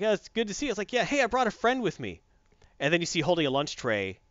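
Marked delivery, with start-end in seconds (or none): 0.0-2.2 higher friendly hero greeting; cheery greeting. Retold or imitated. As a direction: greet the kid brightly.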